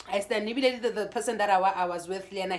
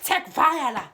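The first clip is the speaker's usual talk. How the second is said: mild retort; 5 semitones higher, 6 dB louder, slower than usual. Retold or imitated. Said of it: "I'm like".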